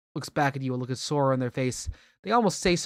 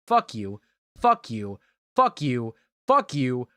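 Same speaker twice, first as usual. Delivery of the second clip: building angry curse; 4 semitones lower, slower than usual. Acted. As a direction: build from growl to yell.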